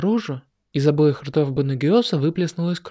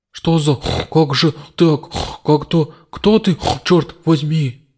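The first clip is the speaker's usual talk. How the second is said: loud, slow frightened demon; fearful; 5 dB louder, slower than usual. Acted. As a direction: recoil in fear. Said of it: "явно читался страх". (испуганный демон)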